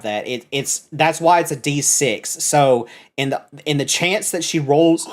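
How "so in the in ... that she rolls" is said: hiccups. Real, not acted. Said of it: "I got the hiccups".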